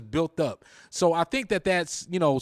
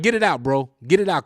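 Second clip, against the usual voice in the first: retold urging; 3 dB louder than usual. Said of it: "I'm like".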